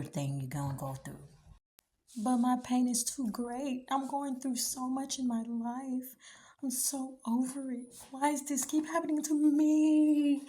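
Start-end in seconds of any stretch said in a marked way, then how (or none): 2.2-10.4 mock self-pity. Mocking a self-pitying complainer.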